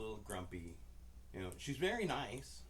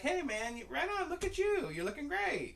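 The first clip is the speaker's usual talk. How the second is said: acting cool; 6 dB louder than usual. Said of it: "I was being all cool".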